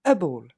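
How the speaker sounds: a ball said low and clear for repeating; model pronunciation. Shown as a demonstration. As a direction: say a ball slowly, for students to copy. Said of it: "Encore une fois". (a ball, prononcé lentement pour la répétition)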